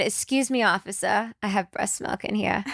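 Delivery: lightly put-on Jersey accent for the officer; fake Jersey accent. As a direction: lay on a bit of fake Jersey. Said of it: "my fake accent, and I just, like".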